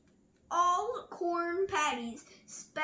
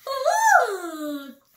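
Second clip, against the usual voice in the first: giggly high shout of Look; a giggling kangaroo, gleeful and loud; 8 semitones higher, 13 dB louder than usual. A narrator's reading. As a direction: burst out with a giggle. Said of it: "giggled Kangaroo".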